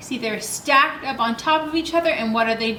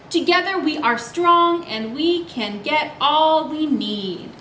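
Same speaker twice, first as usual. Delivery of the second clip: put-on reading to children; slower than usual. A narrator's reading. Reads book lines to kids.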